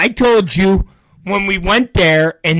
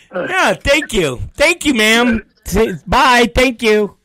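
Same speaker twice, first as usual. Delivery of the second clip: mock polite thanks; 5 semitones higher, slower than usual. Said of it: "We're just doing a bit".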